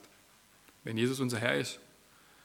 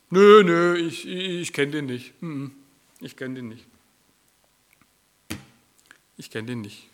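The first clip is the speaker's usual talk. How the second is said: nervous denial; 3 semitones higher, 10 dB louder than usual. Retold or imitated. Peter's stammered denial.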